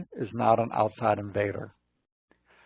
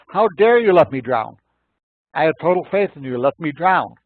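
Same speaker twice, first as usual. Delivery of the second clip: loud, high-pitched indignant outburst; acted furious rant, raised voice; ranting rage; 5 semitones higher, 9 dB louder than usual. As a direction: rage at being let down. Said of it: "storming around in a rant and a rage".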